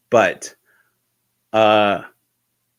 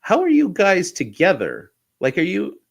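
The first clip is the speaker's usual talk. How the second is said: dad's voice pushed much higher and louder, puzzled; baffled dad; 10 semitones higher, 4 dB louder than usual. Retold or imitated. Dad puzzled at boys on separate computers, high baffled voice. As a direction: play the confused father, high and loud. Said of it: "And he's like".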